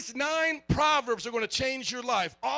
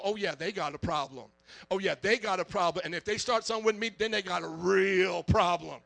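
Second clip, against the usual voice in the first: lower, swaggering hood talk with a threat; mock tough talk; 3 semitones lower than usual. Pastor mocking a churchgoer who points fingers, lightly hood and tough. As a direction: puff up like you're ready to fight. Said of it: "We're not talking like that".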